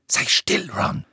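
sharp, high-pitched rebuke; snapping. A narrator's reading. Hermine shuts up complaining Ron, snapping. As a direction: cut him off crossly. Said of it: "fauchte Hermine".

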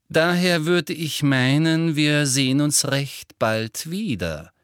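measured official announcing her inspection; Umbridge. Acted. Umbridge warns Hagrid of inspections, measured and official. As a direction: lean deliberately on the key words.

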